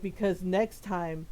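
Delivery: slow, low mock man's voice; deep bass voice. Kid warning his rival, in an imitated deep bass. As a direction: imitate a big bass voice, taking it slowly. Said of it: "this deep bass voice".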